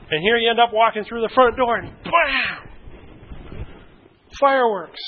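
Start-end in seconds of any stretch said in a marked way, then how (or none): 2.0-2.7 sudden exclaimed bang; explosive bam. Acted. Walking through the front door into a fight, explosive bam. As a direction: burst out with the impact.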